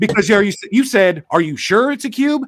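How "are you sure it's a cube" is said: mock surprise, higher. Retelling the other speaker's question about the cube: imitating a surprised tone. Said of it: "You sounded surprised".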